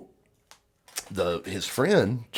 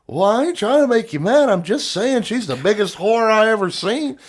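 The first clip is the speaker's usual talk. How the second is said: put-on redneck drunk voice; 10 semitones higher, 4 dB louder than usual. Drunk friend goading the guy, high mock-innocent voice. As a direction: play dumb while pushing his buttons. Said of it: "his response is like".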